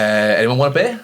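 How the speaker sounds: a light southern lilt on Anyone want a beer; lightly put-on southern lad; southern inflection. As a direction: mimic a mate's new southern lilt. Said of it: "putting his little inflections on things".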